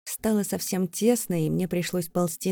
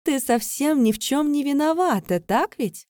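higher, mocking singsong; sarcastic; 7 semitones higher, 4 dB louder than usual. Vika taunting trapped Leira, sarcastic. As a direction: tease her with fake sympathy.

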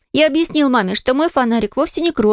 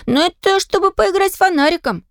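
put-on eager child's voice; 9 semitones higher than usual. A narrator's reading. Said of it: "объяснил я".

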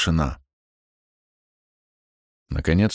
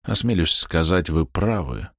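softer, lower, resigned; heartbroken farewell; 3 semitones lower, 3 dB quieter than usual. A narrator's reading. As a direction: say goodbye crushed. (убито, тише и ниже)

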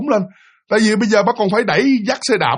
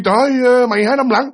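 calling out; 5 semitones higher than usual. Retold or imitated. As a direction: call across to a neighbour you found. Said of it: "bà kêu".

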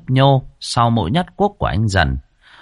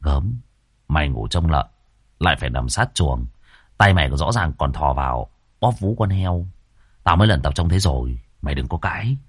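mocking payback; 5 semitones lower than usual. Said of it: "Anh Dần bắt đầu trả đũa".

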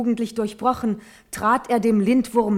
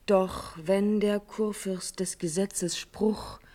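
whisper; 5 dB quieter, slower than usual. Acted. Natalie lowers voice in warning.

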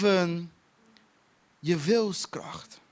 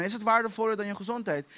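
quick plain question; faster than usual. Retold or imitated. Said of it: "ik zei het gewoon zo tegen hem".

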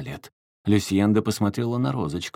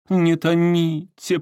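moaning; 9 semitones higher, 6 dB louder, slower than usual. A narrator's reading. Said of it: "простонала Маргарита Аркадьевна".

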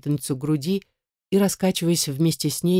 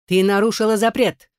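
louder, higher stern rebuke; relentless scolding; 5 semitones higher, 4 dB louder than usual. A narrator's reading. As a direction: keep hammering at the child. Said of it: "не унималась мачеха". (мачеха гневно отчитывает)

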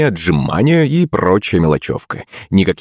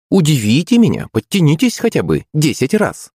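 high, mock-polite girlish challenge; purring taunt; 9 semitones higher than usual. A narrator's reading. Girl daring her rival to do pull-ups, purring. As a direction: tease politely with the pitch held high. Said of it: "промурлыкала она".

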